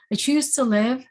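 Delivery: a defiant rising cry of resolve; fierce resolve. Retold or imitated. Repeated resolve, louder take.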